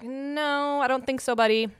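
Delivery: a hint of grandma brushing off a bully; sassy dismissal. Grandmother shoving the demon aside, mild sassy brush-off.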